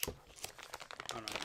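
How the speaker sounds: slow, drawn-out whisper; whispered slowly. Real, not acted. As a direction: breathe it out slowly, barely voiced. Repeating himself, thinking aloud.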